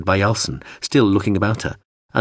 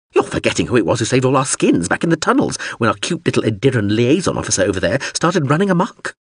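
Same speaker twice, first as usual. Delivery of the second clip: indignant drone; 4 semitones higher, faster than usual. Acted.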